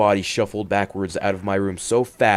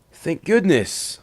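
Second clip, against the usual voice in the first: relieved sigh; 8 semitones higher, slower than usual. Acted. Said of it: "I sighed".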